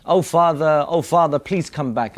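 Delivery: mild retold crying call; crying plea. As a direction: call after him, pleading.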